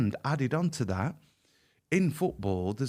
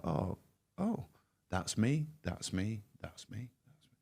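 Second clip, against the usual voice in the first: stunned realisation fading away; 3 semitones lower, 8 dB quieter than usual. Retold or imitated. Recognising himself in the symptoms.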